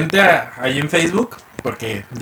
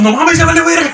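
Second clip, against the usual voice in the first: high laughing mock panic; half-laughed falsetto alarm; crowd panic; 12 semitones higher than usual. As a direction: cry it out like the whole room. Everyone panicking in story.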